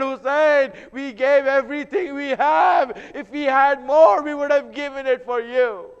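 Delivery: impassioned plea, swelling then easing; anguished lament. Acted. The ladies bid Hussein farewell, anguished lament.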